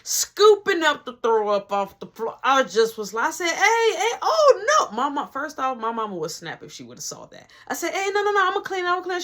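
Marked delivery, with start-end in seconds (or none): 3.5-5.0 high, hurried objection; pitched-up mock panic; retold alarm. Acts out alarm at guest cleaning. 7.9-9.2 high, insistent protest; pitched-up mock fluster; retold frantic objection. Acts out stopping guest cleaning.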